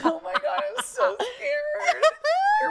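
high, loud laughing half-cry; laughing scared. Real, not acted. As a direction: squeal through laughter in horror. Reacting to scary photo.

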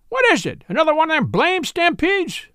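put-on old blind trapper's petulant falsetto. A narrator's reading. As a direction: whine it up high like a querulous old blind trapper. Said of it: "in a queer and petulant falsetto".

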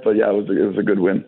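raspy, worn-out voice; hoarse voice. Real, not acted. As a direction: voice shot from yelling. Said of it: "I kinda lost my voice from all the yelling".

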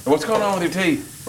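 slow, high Brooklyn drawl; Brooklyn accent. Retold or imitated. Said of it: "it was like a Brooklyn accent".

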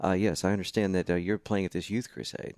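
a hint of a deep-voiced caller; James's deep voice. Caller checking on the youth crusade booking, lightly imitated deep voice. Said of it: "this guy, really deep voice".

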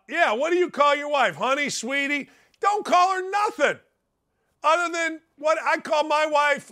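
normal talking voice

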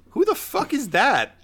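high-pitched incredulous question; baffled outburst. Acted. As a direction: blurt it out high, utterly baffled. Overheard baffled reaction to the threat.

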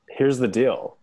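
a hint of mock candidate; debate voice. Podcast host opening a pitch on weird hats, mock debate voice. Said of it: "This is my debate voice".

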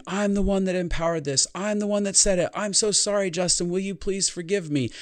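high, pleading, near tears; high, choked-up plea to himself; tearful apology. Retold or imitated. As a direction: beg your own forgiveness, voice rising high. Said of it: "And I start saying".

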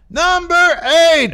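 loud, high, drawn-out countdown shout; announcer call. Pretend. Host announces the next countdown item, big announcer shout. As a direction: boom it out like an arena announcer.

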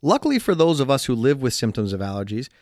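upbeat sponsor-read delivery. Acted. Podcast host selling allergy relief, ad read. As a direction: pitch the product to listeners.

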